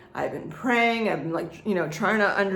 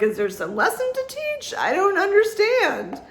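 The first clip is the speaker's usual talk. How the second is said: high-pitched, exasperated mock pleading; bewildered plea; 11 semitones higher than usual. Vlogger retelling her questions about the crazy times, bewildered plea. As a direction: plead upward in comic bewilderment.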